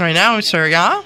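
lightly put-on Minnesota accent. Questioner politely pressing the salesman, Minnesota accent. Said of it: "that was your Minnesota accent".

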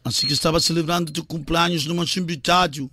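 put-on Portuguese-accented Spanish mix; Cristiano Ronaldo impression. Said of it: "Que tal minha imitação de Cristiano Ronaldo?".

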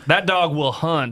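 slow, lightly Southern folksy saying; put-on Southern accent. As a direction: drawl it like a Southern tailgater. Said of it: "start using Southern vernacular".

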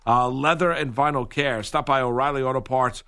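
even, practised sponsor read; radio ad read. Acted. Reads sponsor advertisement.

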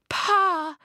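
high, loud emotional cry; calling out. A narrator's reading. Esker calls to her father climbing towards her, crying out.

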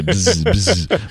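high buzzing fly noise; high mock buzz. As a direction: buzz like an annoying fly in his ear.

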